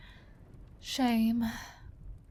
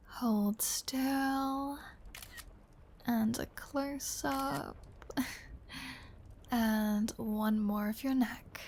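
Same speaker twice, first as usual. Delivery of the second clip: hushed and coaxing; 5 dB quieter, much slower than usual. Acted. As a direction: murmur as if framing a close shot. Taking photos up close.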